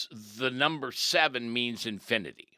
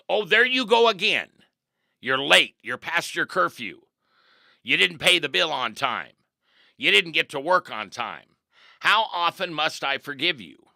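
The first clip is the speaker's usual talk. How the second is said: much higher and louder nagging; mock nagging complaint; 6 semitones higher, 9 dB louder than usual. A preacher voicing a fed-up spouse nagging, high and loud. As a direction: scold someone who keeps failing. Acted complaint to loved one.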